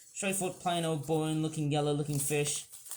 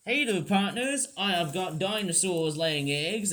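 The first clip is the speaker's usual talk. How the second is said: a hammed-up cowboy American accent; mock hillbilly American drawl with a grin. Toy reviewer voices his hillbilly penguins in a mock American accent. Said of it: "doing an American accent".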